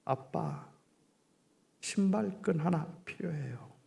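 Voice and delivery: softly voiced, hesitant child; imitated timid child, a touch of trembling; timid trembling request. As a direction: ask carefully in small pieces, with a pause. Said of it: "아주 조심스럽게 떨리는 소리로".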